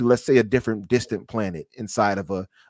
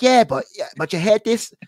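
put-on Australian accent with raised, higher pitch; 13 semitones higher, 6 dB louder than usual. Quoting an Australian buddy from a party who kept nitpicking, in an Australian accent. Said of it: "so I'm trying to do my Australian accent".

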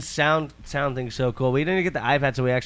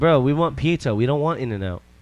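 normal talking voice

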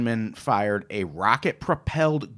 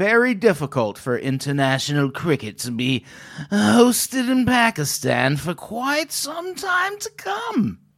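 deliberate, high, slow, drawn-out, swinging sing-song official tone; 8 semitones higher than usual. Quoting a cricket council president's statement: David Morgan impression. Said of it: "That's a good impression".

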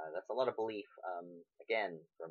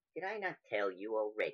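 put-on female cat-creature voice; 3 semitones higher than usual. In a tabletop game, the narrator voices the female tabaxi being questioned: female tabaxi character voice. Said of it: "you can tell that this particular creature is a tabaxi. Female at that".

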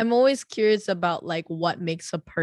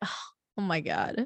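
imitated loud sigh; 7 dB quieter than usual. Showing another speaker how they sigh at problems: imitating own loud sigh. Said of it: "I sigh really loud".

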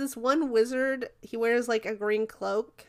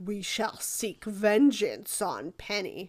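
over-the-top, super dramatic superhero voice. Retelling a show scene where Finn speaks, in a super dramatic Batman voice. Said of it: "a super dramatic Batman voice".

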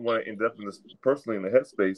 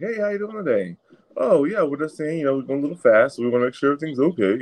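put-on calm, nice, polite voice, higher pitch; 4 semitones higher than usual. Retelling a dash cam traffic stop, imitating an officer, calm and nice. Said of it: "real calm, real nice".

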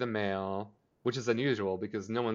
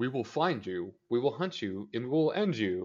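mock pissed-off, furious, stern headmaster voice. Retelling a scene where Principal Weatherby is pissed: imitating angry Principal Weatherby. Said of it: "Weatherby is pissed".

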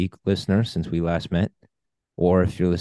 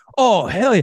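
very high, loud, overly enthusiastic belted bro voice. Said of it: "he's just overly enthusiastic".

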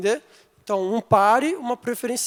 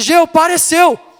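very loud, high, yelled shout; 8 semitones higher, 11 dB louder than usual. Recalling warning her as she kept accelerating, retelling a shout. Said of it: "eu gritei".

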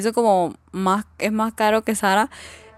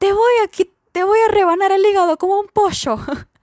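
put-on, very high-pitched Argentine Spanish accent; 11 semitones higher, 4 dB louder than usual. Retelling a film scene where a woman threatens a man, imitating an Argentine accent. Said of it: "como el acento argentino le decía".

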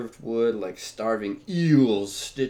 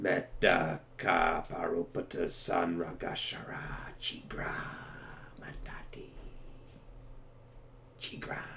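whispered, hushed, breathy inhuman growl; 5 semitones lower, 9 dB quieter than usual. Retelling an audiobook scene, voicing a creature's words: growling. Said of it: "had began growling".

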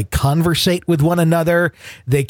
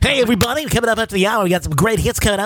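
nasal, plugged-nose radio dj voice, higher pitch; 7 semitones higher than usual. Imitating a radio host who sounded like he plugged his nose on air, nasal radio dj voice. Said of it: "it sounded like he plugged his nose every time he went on the air".

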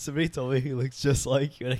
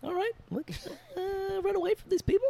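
put-on very high-pitched New Zealand accent. Describing a movie, quoting its characters in a New Zealand accent. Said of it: "they do the accent the whole time".

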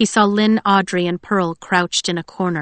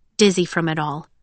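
plain reading voice

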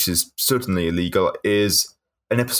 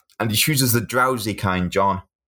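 normal talking voice

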